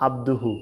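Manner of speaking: আবদুহু with a simple open a; easy alif sound. Shown as a demonstration. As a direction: say আবদুহু easily, no pressure in the throat. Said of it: "সহজভাবে". (আবদুহু সহজভাবে, আলিফ দিয়ে)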